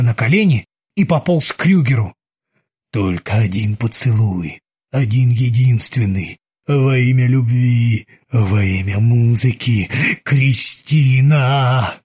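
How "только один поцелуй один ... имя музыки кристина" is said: slow pleading moan; sobbing ghost voice. Acted. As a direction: beg for a kiss, dragging. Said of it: "умоляя о поцелуе".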